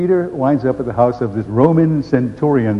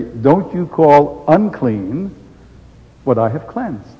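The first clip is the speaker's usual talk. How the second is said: very slow, solemn divine voice; voice of God; much slower than usual. Acted. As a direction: speak slowly with heavenly authority. Voice from heaven speaks.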